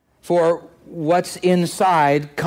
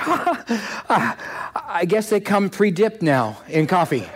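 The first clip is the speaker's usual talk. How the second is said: put-on amused older gentleman laughing it off; laughing old man; 2 semitones higher than usual. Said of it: "and he laughed".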